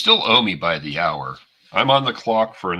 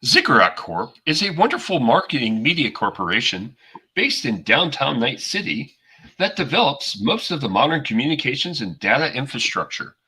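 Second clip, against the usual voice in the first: corporate ad voice; 4 semitones higher than usual. Acted. Corporate promo voice.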